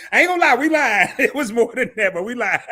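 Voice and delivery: amused, giggly admission; laughing confession. Real, not acted. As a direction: own up through laughter. Laughing admission of lying about price.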